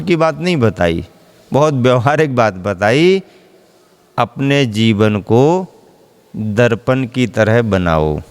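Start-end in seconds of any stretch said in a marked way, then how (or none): 4.2-8.2 slow and low, each word weighed; slow guru's answer. Retold or imitated. Guru answers his disciple, slow and weighty. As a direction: hand the disciple the answer slowly. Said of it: "क्या?".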